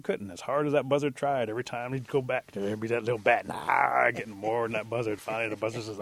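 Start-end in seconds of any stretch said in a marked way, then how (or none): 3.5-4.1 louder, drawn-out "nah" of snarfing; imitated gobbling noise. Storyteller showing bat out-eating the buzzard, gobbling noise. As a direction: mimic greedy gobbling.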